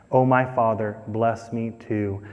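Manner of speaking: soft, slow, breaking plea; tearful plea. Acted. Esau weeping to his father, soft sad plea. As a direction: let the plea fade almost to nothing. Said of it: "Esau broke down and wept".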